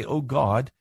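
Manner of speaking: acted moaning complaint, rising to a high "why"; complaining to God. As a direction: plead indignantly, as if wronged by God. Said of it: "I can groan and moan and complain and say".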